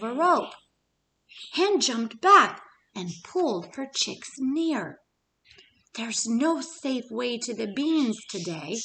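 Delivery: lively storybook narration, pitch rising and falling; story narration. A narrator's reading. Teacher reading a picture book to the class, lively narration. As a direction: read it aloud to little kids.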